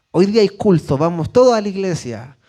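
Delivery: rallying the family for church, eagerly; excited churchgoing mother. Acted. Mother rounding up the children on service day, excited. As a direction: act out a parent keen to get going. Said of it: "Usted se vuelve loca".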